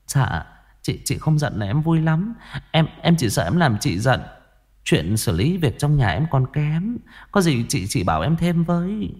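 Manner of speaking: butter up the elder wife with a sugary lilt; fawning flattery. Acted. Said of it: "kiểu nói nịnh nọt, thân mật như thế". (giọng nịnh nọt ngọt ngào)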